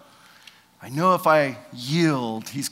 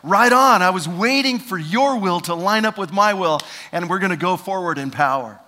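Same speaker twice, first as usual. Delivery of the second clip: loud, eager approval; booming upbeat approval; enthusiastic Holy Spirit; 3 semitones higher, 7 dB louder than usual. Retold or imitated. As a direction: cheer him on as God. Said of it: "the Holy Spirit was like".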